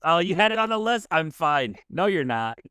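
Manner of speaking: high amused laugh at I'm fine; playful teasing. Real, not acted. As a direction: call them out with a grin.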